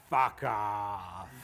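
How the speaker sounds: laughing dismissive retort; mock rude brush-off; laughing fuck off. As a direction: toss it off through a laugh. Men's group mocking retort.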